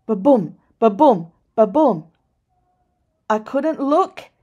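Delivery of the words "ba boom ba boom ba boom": 1 pounding heartbeat. A narrator's reading. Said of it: "my heart went".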